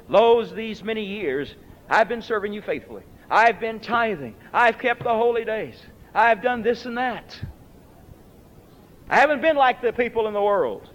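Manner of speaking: a touch of self-righteous pleading; the dutiful son listing his merits, mildly smug. Retold or imitated. Elder brother to father, mildly self-righteous. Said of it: "what a self-righteous statement".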